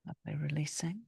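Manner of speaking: a hushed whispered cue; soft whisper. Real, not acted. Teacher to yoga class mid-pose, whispered. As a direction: breathe it out softly, barely voiced.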